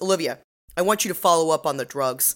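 plain

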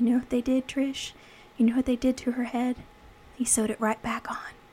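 hushed, quiet, dazed mumbling. Retelling a movie scene where Darry tells Trish what he saw: imitating Darry mumbling quietly. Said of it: "He's mumbling".

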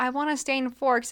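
ordinary delivery

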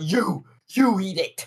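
high, furious, insistent, acted-out angry tone. Retelling a cartoon scene: imitating a furious Agumon. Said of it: "Agumon is furious in this bit".

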